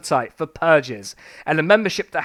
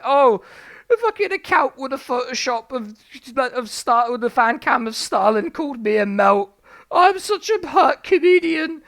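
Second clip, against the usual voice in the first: Frankie Boyle impression; 5 semitones higher than usual. Streamer mocks a comedian's complaints, whiny sulky impression. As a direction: play a hurt, sulky comedian. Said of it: "That's my impression of Frankie Boyle".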